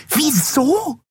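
viel höher und spitz gefragtes Wieso?; schrill. Acted. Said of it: "wiederholte die Yadi schrill". (schrilles, hohes Wieso?)

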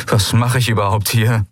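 Kai, helpless; helpless young man. Acted. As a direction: throw up your hands.

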